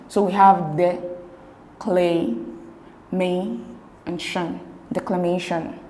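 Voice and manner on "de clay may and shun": de... clay... may... shun, long pauses between; each syllable of de, clay, may, shun standing alone. Shown as a demonstration. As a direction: break declamation into separate syllables. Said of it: "divide the words into syllable".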